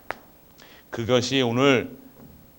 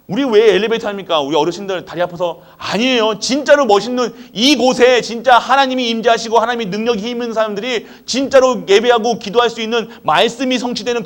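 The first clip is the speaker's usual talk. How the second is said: higher, louder fervent sermon; full-force preaching; 7 semitones higher, 7 dB louder than usual. Real, not acted. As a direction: preach it with rising fire.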